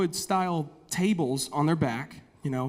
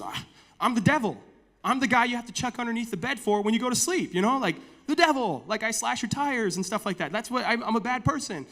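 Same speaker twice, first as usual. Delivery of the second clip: boasting devil; 5 semitones higher than usual. Retold or imitated. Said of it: "And he goes".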